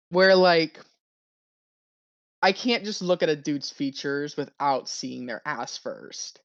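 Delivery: with hiccups; hiccupping between words. Real, not acted. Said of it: "sorry, I got the hiccups".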